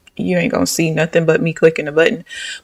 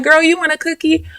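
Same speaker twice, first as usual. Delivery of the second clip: mom offering; 9 semitones higher than usual. Retold or imitated. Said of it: "my mom was like".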